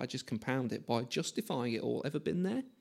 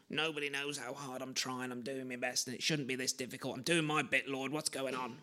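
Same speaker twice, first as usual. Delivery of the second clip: soft, sulky self-pitying moan; self-pity mode; 3 semitones lower, 8 dB quieter than usual. Retold or imitated. Preacher mimics his own self-pity to the congregation, sulky and soft. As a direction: grumble to God, softer, feeling hard done by. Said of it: "I go into a self-pity kind of mode".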